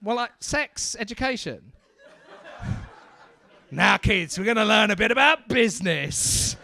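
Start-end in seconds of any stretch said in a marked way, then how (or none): 3.7-6.6 put-on teacher to kids. Acts a teacher addressing a class.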